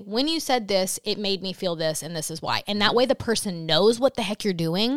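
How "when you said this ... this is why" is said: demo script. Shown as a demonstration. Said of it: "I'm gonna say".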